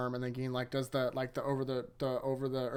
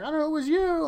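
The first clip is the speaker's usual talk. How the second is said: mock accusation; 13 semitones higher, 5 dB louder than usual. Momo accusing, pitch jump.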